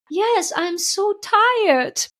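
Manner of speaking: slow, high, drawn-out tired plea; weary fear voice. Retold or imitated. The fear confessing its exhaustion to her, slow and high. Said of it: "the fear said that the aspect of her".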